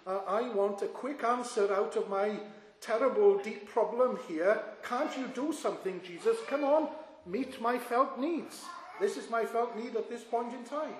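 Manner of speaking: lightly acted impatient plea; mock demanding. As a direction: imitate a self-centred demand, pitch jumping up. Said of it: "what he really meant was".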